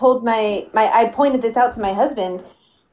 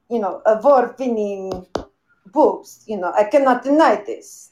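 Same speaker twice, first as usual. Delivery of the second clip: put-on Russian accent; 4 semitones lower than usual. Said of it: "you sound a little Russian to me".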